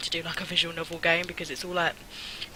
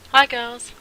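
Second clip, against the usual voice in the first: bright loud high greeting; cheery greeting; 6 semitones higher, 12 dB louder than usual. Acted. Mum arriving home, loud cheerful greeting. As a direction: call out hello as you walk in.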